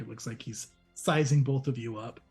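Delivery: ordinary talk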